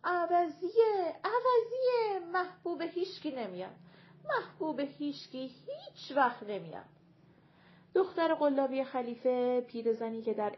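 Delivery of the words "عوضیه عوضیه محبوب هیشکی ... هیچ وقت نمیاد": shouting. A narrator's reading. Siah tells the crowd she's the wrong one, shouting. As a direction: call it out high, stretching the first words. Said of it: "داد زد".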